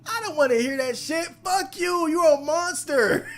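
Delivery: real disgust at the character, swearing at him; fast furious snap with a laugh in it; angry outburst. Real, not acted. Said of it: "I'm mad".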